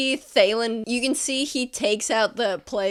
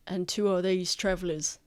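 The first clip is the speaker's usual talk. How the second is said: guard voice; 2 semitones lower, 3 dB quieter than usual. Acted. Guard questions merchant.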